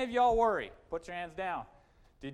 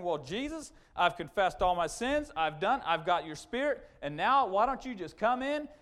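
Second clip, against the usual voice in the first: whiny prayer; 3 semitones higher, 4 dB louder than usual. Retold or imitated. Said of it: "That's kind of the attitude we get".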